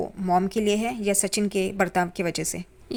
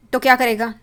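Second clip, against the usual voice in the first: loud challenge; 3 semitones higher, 7 dB louder than usual. Retold or imitated. Sachin provokes Tejas in fight.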